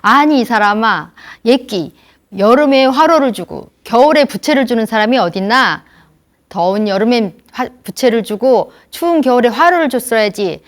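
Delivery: loud, furious telling-off; shouting angrily. Retold or imitated. An elder shouting at the man who sent a fan in winter, loud rage. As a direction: yell at him, exasperated. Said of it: "막 소리를 치면서".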